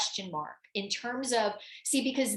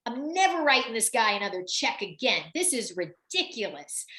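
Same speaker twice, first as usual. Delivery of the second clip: mock angry. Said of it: "she was so angry".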